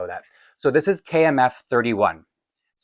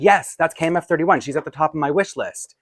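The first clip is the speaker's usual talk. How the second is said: higher, bright eager yes; eager excitement; 4 semitones higher than usual. Retold or imitated. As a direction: blurt it out like a thrilled collector. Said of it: "a ridiculous person who always gets excited over dolls".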